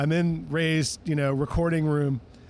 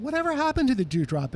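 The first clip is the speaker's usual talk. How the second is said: a singer's voice; 8 semitones higher than usual. Retold or imitated. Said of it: "Ray Charles says to me".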